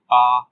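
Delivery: short 'आ' as the letter A's first sound. Shown as a demonstration. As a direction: say 'आ' as an isolated vowel. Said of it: "ए का छह है sound". ('आ' को अलग स्वर की तरह बोलें)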